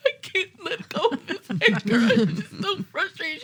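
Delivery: high, laughing exasperation; laughing through frustration. Retold or imitated. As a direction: laugh as you vent. Retold breakdown, laughing.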